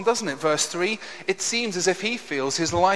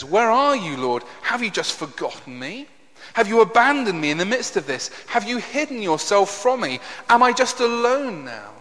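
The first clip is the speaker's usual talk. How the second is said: mildly distressed plea, louder on the later questions; lightly acted cry of abandonment; anguished questioning; 4 semitones higher, 5 dB louder than usual. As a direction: press each question at God, a touch desperate. Acts out David's anguished questioning of God.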